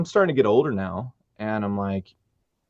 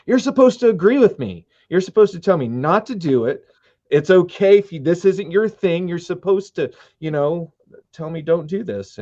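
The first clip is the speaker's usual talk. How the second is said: much higher, louder incredulous protest; mock protest; 7 semitones higher, 4 dB louder than usual. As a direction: plead in comic disbelief. Protesting to his wife, retold.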